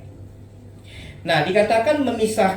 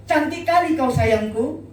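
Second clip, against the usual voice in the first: higher, mock-gushing compliment; playful doting husband; 5 semitones higher, 3 dB louder than usual. Husband praising his dressed-up wife, playful mock gushing. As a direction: lay on the sweet talk, lightly hammed-up. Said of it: "mau sayang sama istri gitu".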